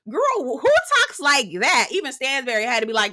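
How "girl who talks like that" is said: incredulous. Real, not acted. Shocked at Brooks' words.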